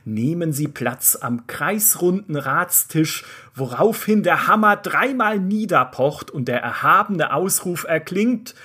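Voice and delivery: solemn fairy-tale storyteller voice; epic narration. Acted. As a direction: read it like an old legend. Pompous fantasy intro narration. (feierlicher Märchenerzähler)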